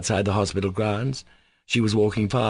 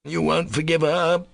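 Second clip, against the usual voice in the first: frantic reproach; 8 semitones higher than usual. A narrator's reading. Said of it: "cried Mitya with frantic reproach".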